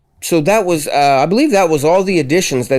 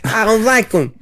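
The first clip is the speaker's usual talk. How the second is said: high lisping tough-guy growl; Mike Tyson; 7 semitones higher than usual. Pretend. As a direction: lisp it like a champ boxer. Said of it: "Why does he talk like Mike Tyson".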